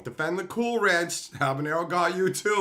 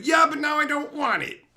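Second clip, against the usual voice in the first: imitating his wife; 7 semitones higher, 4 dB louder than usual. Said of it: "She's like".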